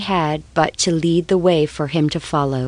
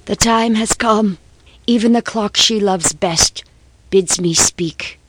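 put-on grieving old man, voice raised; low wail; 4 semitones higher than usual. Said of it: "broke forth into a low wail".

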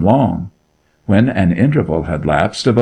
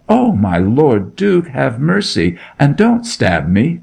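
higher, begging for mercy on his knees; terrified cry; 6 semitones higher than usual. Acted. Shepherd boy begs the Duke for his life, terrified. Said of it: "cried the shepherd".

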